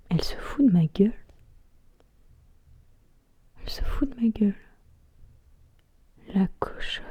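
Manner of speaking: halting stage monologue with long pauses; spoken-word recital, letting each image hang; dramatic monologue. Acted. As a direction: perform it as a brooding theatrical soliloquy.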